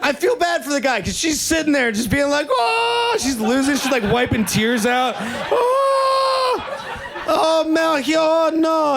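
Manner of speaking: high, shrieking laughter through the words; crying with laughter. Retold or imitated. Imitating the lady laughing at the wet man, high and shrieking. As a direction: squeal the words out while laughing till tears.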